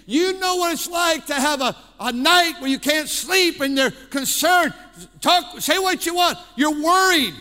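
loud, emphatic sermon delivery. Real, not acted. Pastor addressing parents who lie awake, emphatic. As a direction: press it on the room with force. Preaches at raised force.

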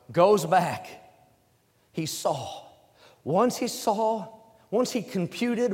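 sudden drop to a soft hush. Real, not acted. Preacher hushing the congregation, soft and low. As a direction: pull it way down, almost confiding.

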